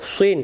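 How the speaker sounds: সুইন with lips rounded into the "i"; rounded mouth. Shown as a demonstration. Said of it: "মুখটা গোল". (সুইন, মুখ গোল করে)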